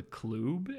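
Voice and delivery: "club" with a long oo vowel; "club" pronounced "kloob". Retold or imitated. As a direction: say "club" to rhyme with tube. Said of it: "that's a club".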